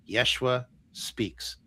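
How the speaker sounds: very slow, with a long pause between words; solemn channeled announcement. Retold or imitated. Channeling medium turns to him to announce a spirit, slow and solemn. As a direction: announce it slowly, word by word.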